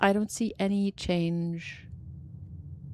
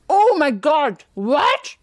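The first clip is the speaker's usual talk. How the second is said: surprised; 5 semitones higher, 8 dB louder, much slower than usual. Real, not acted. Shocked by a locksmith room.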